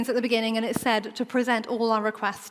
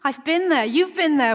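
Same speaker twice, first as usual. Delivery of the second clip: relieved recognition; 4 semitones higher, slower than usual. Acted. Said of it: "that feeling of".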